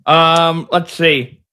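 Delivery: talking around a pen in mouth; words muffled by a pen in the mouth. Real, not acted. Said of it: "Sorry, I got my pen in my mouth".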